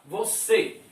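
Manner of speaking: Você with the final syllable stronger; stress on last syllable. Shown as a demonstration. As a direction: lean on the end of Você. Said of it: "qual é a sílaba mais forte". (Você com a última sílaba mais forte)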